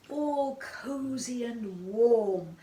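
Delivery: drawn-out, slow and cosy. A narrator's reading. Narrator describing Goldilocks's snug little bed, cosy. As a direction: savour it slowly, snug and contented.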